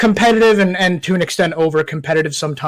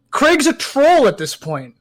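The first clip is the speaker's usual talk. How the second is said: laughing; 8 semitones higher, slower than usual. Real, not acted. Laughing while joking about Craig.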